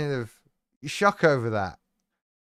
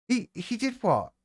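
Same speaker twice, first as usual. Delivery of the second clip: mock disbelief; 7 semitones higher, 3 dB quieter than usual.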